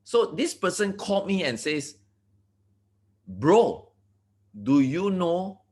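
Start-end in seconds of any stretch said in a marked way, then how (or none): 3.3-5.6 a shaken friend's call, slowed and pleading; the friend phoning, emotional and earnest. Retold or imitated. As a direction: retell the call with a touch of emotion. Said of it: "he sounded very emotional".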